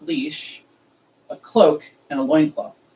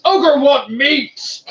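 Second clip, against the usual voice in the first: loud, drawn-out caveman demand, pitched up; roaring Ogre; 10 semitones higher, 7 dB louder, much slower than usual. Retold or imitated. Ogre slamming the fast-food counter, roaring. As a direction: bellow it slowly like a hungry giant.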